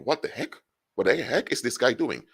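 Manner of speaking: high-pitched, baffled questioning; incredulous thought. Acted. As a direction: act out a puzzled "what on earth" reaction. Acts out listener's indignant thought.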